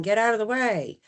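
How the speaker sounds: loud, sharp command; yelling. Shown as a demonstration. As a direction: yell it like an annoyed staffer. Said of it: "instead of yelling".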